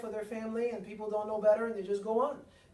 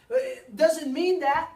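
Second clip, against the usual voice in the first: slow emphatic; 5 semitones higher, 9 dB louder, much slower than usual. Real, not acted.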